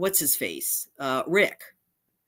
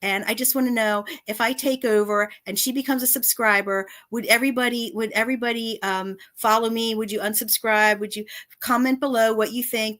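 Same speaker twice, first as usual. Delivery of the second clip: mocking imitation; 4 semitones higher than usual. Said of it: "you said".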